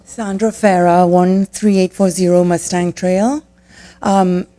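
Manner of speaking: teeth chattering from the cold; talking through chattering teeth; shivering. Real, not acted. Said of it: "my teeth are chattering".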